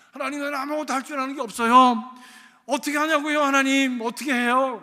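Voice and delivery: put-on loud tearful child's plea to God; crying lament. Lonely boy in the school bathroom pleads with God, wailing. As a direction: cry out to God like a hurt boy. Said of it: "울면서 탄식을 했대요".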